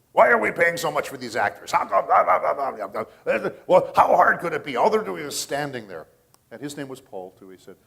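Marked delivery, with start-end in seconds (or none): 0.1-6.1 loud, high-pitched imitated rant; livid. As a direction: mimic an outraged payroll boss, ranting into blah-blahs. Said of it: "came down into his studio livid".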